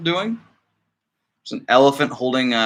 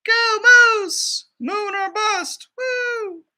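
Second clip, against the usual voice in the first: high, whooping launch cheer; excited cheer; much slower than usual. Acted. Moose cheering as he launches, high excited whoop. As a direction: shout it out like blasting off.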